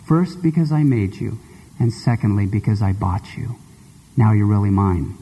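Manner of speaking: deep, tender vow of belonging; tender declaration. Acted. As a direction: promise never to let go. God's love voiced through girl.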